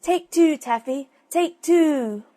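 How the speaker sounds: high, loud cooing call; silly dove cry. Acted. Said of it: "its silly cry".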